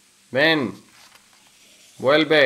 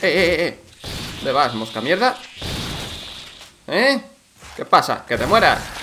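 sudden loud shouts at a buzzing fly; louder, irritated yells; yelling at a fly; 4 dB louder than usual. Real, not acted. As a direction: bark it at the fly, annoyed.

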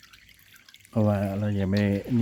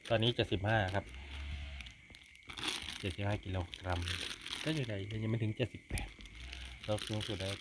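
hushed night talk; 11 dB quieter than usual. Real, not acted. Kids asleep in tent at night.

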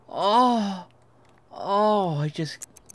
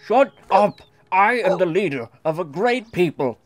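commanding alien leader. Acted. Player voicing the character to the audience, bossy alien ruler. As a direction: proclaim like a lightly voiced alien overlord.

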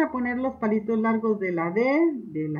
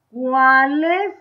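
"cuáles" said louder with a rising pull on the accented A; stressed accent; 6 dB louder than usual. Shown as a demonstration. Teacher showing pupils where "cuáles" is stressed. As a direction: lean on the A of "cuáles" to show the accent. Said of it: "¿dónde lleva el acento cuáles?".

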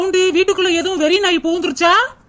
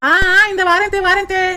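calling back; 4 semitones higher than usual. Acted. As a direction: call back that you're coming. Answering a call from afar.

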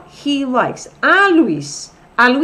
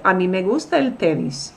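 "A mí" said with weight; emphatic. Shown as a demonstration. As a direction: stress on "A mí" up front. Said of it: "If I wanted to be really emphatic".

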